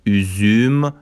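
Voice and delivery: "اوزوم" with fronted ü, as üzüm; Turkish ü demo. Shown as a demonstration.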